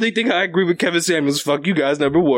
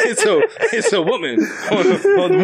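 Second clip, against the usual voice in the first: laughing excitedly; 14 semitones higher than usual. Real, not acted. Excited story climax, laughing.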